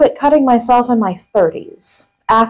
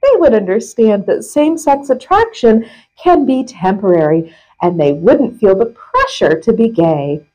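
measured reading with punched key words; article read-aloud. Acted. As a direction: read a printed article out with deliberate emphasis. Reads article aloud to co-host.

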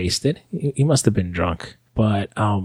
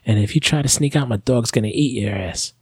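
imitated motherly threat, pitched up; mother yelling; 4 semitones higher than usual. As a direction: warn them like a fed-up mom, voice high without shouting. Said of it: "She starts yelling at us".

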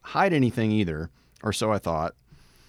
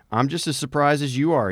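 mock innocent; 5 semitones higher than usual. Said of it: "he claims criminally".

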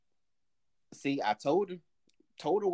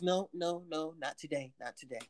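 quiet refusal; 4 semitones lower, 9 dB quieter than usual. Retold or imitated. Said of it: "You got any offerings?".

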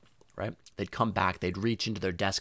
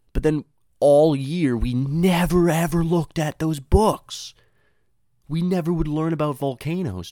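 slow, louder, higher grumble; exasperated; 8 semitones higher, 8 dB louder than usual. Real, not acted. Complaining to listeners about never using the books, slow and loud. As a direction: drag out the letdown.

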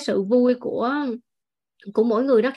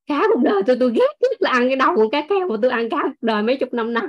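mock tearful outburst; 2 semitones higher, faster than usual. Old husband finally confesses to his wife what he hates, in mock tears. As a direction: burst out in comic, aggrieved sobs. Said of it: "Ông khóc òa lên".

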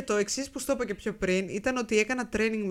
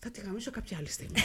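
laughing threat; 8 dB quieter than usual. Retold or imitated.

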